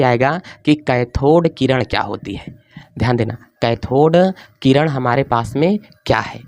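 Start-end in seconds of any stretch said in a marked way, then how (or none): 3.6-6.4 spaced-out words with a pause; slow dictation. Real, not acted. Teacher writes the cathode ray heading, slow dictation. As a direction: read it out as you write.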